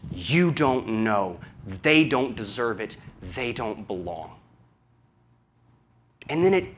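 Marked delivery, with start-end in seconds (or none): 0.1-4.3 stubborn Jonah. Acted. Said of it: "comfortable to say".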